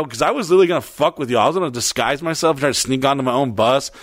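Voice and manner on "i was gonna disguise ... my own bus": ordinary delivery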